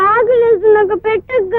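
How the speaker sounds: put-on whimpering child's plea; beg, close to crying; tearful begging. Hungry little sister begging elder sister to feed her, tearful begging. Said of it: "ఏడవద్దమ్మా".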